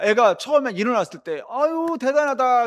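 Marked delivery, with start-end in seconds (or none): 1.5-2.7 higher, louder, slow marvelling; amazed parent. Retold or imitated. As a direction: marvel at the baby's first steps. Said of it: "그랬을 거 아닙니까". (높고 느리게 감탄하는 부모)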